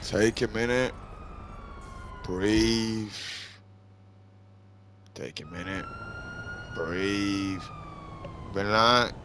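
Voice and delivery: soft, measured self-soothing; quiet, spaced-out calming words; calming himself down. Real, not acted. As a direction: talk yourself down between long breaths. Talks himself down after raging.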